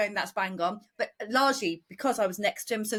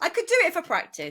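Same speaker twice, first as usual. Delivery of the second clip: ordinary talk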